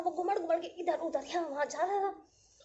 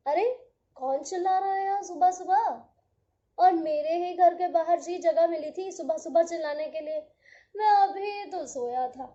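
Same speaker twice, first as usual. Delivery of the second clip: grumpy woken sun; 5 dB louder than usual. Acted. Sun grumbling, woken early.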